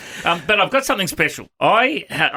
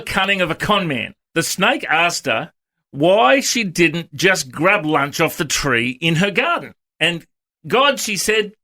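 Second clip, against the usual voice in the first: story reading aloud; 3 semitones higher, slower than usual. Acted. Reads from the Aussie Bible.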